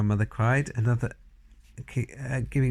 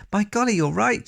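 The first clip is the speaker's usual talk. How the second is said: much higher and a bit louder, struck by the idea; surprised cry; 11 semitones higher, 4 dB louder than usual. A narrator's reading. Grandmother grasping the boy's warning, surprised cry. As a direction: gasp out the realisation. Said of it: "she cried".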